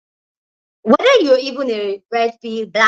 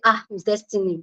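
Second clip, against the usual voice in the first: put-on Nigerian accent; 5 dB quieter than usual. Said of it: "with our terrible Nigerian accent".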